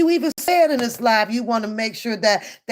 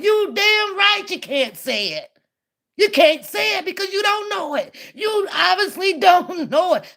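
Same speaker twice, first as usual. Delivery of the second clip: heated rant; 8 semitones higher than usual. Real, not acted. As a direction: let him have it, pitched up and hot. Ranting at a clip of Booker.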